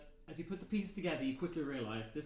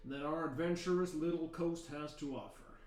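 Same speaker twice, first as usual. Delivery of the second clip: louder guard giving rules; stern guard; 4 semitones higher, 4 dB louder than usual. Acted. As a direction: address the prisoners' visitors like a tough guard. Guard briefs the party.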